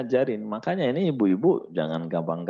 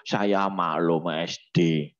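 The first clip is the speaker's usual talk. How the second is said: mock excuse; 4 semitones lower, slower than usual. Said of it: "Nanti umur empat puluh".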